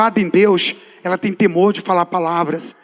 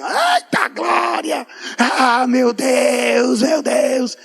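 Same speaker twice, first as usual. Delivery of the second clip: high, drawn-out joyful cry of glory; ecstatic praise shout; 3 semitones higher, much slower than usual. Retold or imitated. Preacher reenacting his prayer as fire falls, shouting in rapture. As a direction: shout it like the fire just fell.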